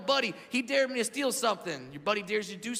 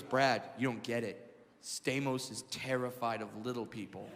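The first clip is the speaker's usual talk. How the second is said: low, hushed conspiratorial warning, much softer; 10 semitones lower, 8 dB quieter than usual. Retold or imitated. Saget warns Brad in a low hushed voice. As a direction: tell him the secret under your breath. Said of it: "He goes".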